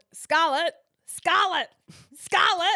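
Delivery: very loud, high, repeated looping holler. Telling about a dad at the playground yelling his kid's name, imitating a dad yelling. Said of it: "he just yelled".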